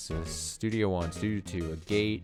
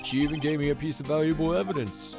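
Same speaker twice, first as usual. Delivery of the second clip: Detective Gumshoe voice; 2 semitones higher than usual. Acted. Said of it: "my Detective Gumshoe voice".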